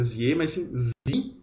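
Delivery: "Sie" as one long "ii", the e silent; lengthened I. Shown as a demonstration. Teacher showing that IE is a long I, drawn-out Sie. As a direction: stretch the vowel of "Sie". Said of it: "de um I mais alongado".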